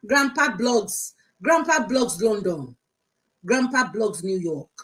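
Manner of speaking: slow, loud, mocking titles; drawn-out mockery. Mocking the titles he gives himself, slow and loud. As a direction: stretch each grand title out with scorn.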